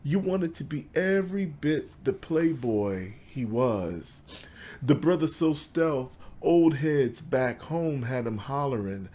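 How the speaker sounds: measured recital with pauses between phrases; poetry reading. Acted. Poet reads to an audience about his father, measured poetry recital. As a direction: lift the line openings, let the endings fall away. Reads own poem aloud.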